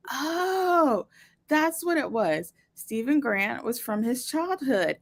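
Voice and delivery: drawn-out high "oh" of understanding; dawning realization. Retold or imitated. Podcast host voicing a viewer finally understanding Stephen Grant, dawning realization. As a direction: act out the penny dropping.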